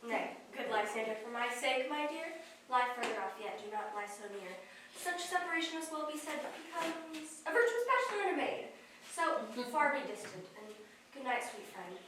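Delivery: hushed, gentle pleading; soft and tender. Acted. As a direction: keep it low and tender. Hermia softly refuses him.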